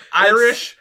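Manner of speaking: loud, high mock Irish accent. Shown as a demonstration. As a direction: pop out a quick Irish accent. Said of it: "it becomes Irish then British".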